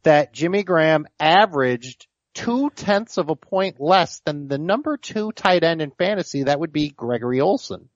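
nerd voice. Pretend. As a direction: play it like a fussy stats nerd. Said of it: "Can you do it in the nerd voice?".

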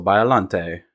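Biollante with a "tay" ending; French-style pronunciation. Shown as a demonstration. Host explaining the word's origin, French-style ending. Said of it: "it comes from, like, a French word".

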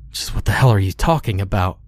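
quick, pressing demand. Acted. Bill demands answers from the clown, fast and pressing. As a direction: fire the question at her fast. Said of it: "Bill demanded".

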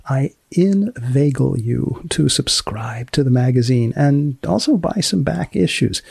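unhurried announcer read of the show's closing; podcast outro. Acted. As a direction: sign off the episode like a radio host.

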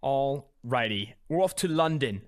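slow, put-on London accent; mock London accent. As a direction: play at a British accent, drawn out. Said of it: "That's better than mine. I can't do accents".

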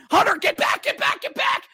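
high, shouting warning; desperate yell. Real, not acted. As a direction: scream at the goalie to get back. Yelling at goalie during play.

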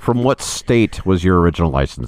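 stern tired clerk; DMV clerk. Pretend. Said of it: "person from the D M V".

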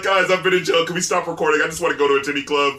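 mock pleading, tumbling along; desperate plea. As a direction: beg half-heartedly to be let go. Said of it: "like a desperate plea".

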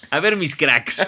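lightly voiced vlogger greeting; Luisito impression. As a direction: greet the fans, influencer style. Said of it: "Luisito Comunica del peligro".

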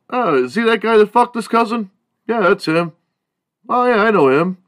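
high, loud mock-gossip voice; gleefully dish the dirt like a teen; gossipy classmate.

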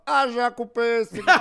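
loud, high-pitched politician impression; high, slow, booming catchphrase; Maluf. Guest redoes his childhood party-game impression, hammed-up Maluf. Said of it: "eu imitava o Jânio Quadros, o Maluf".

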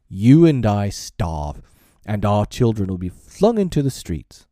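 loud, emphatic ultimatum; blustering stern father, pitch and volume up; stern warning. Acted. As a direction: lay down each threat forcefully, building the case. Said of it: "and he went on sternly".

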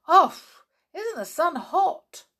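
high, loud cry of delight; excited shout. Acted. Children setting off on their outing, shouting with excitement. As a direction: burst out with joy at setting off.

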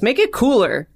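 high-pitched client giving a vague note; mock client demand. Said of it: "and a client goes".

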